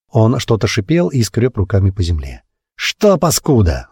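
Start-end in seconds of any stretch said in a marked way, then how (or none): 2.8-3.9 slow, higher yelled taunt; a mocking crowd taunt, yelled. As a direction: jeer it out slowly from the mob. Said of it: "заорал кто-то".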